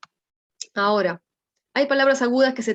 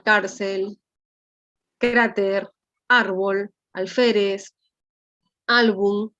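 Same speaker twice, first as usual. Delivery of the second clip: "cárcel, cráter, árbol, alférez, álbum" as separate words, each punched on the second-to-last syllable; stress on penultimate syllable; much slower than usual. Shown as a demonstration. Teacher listing graves, "cárcel, cráter, árbol, alférez, álbum" stressed on the penultimate syllable. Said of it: "su fuerza de voz está en la penúltima".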